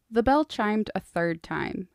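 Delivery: ordinary delivery, nothing marked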